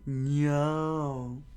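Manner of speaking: high, loud shouted no; loud scream. Acted. Crowd screams as the kid stabs himself, loud alarmed no. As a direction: yell it out in alarm. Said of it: "with a loud scream".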